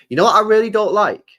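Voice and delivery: what punched loud and high; "what" पर ज़ोर, ऊँची आवाज़ में; emphatic question. Real, not acted. Building to a complaint.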